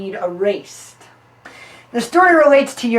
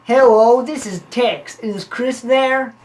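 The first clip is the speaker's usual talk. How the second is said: fake Texan accent; 3 semitones higher, 4 dB louder, slower than usual. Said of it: "disguised his voice in a fake Texan accent".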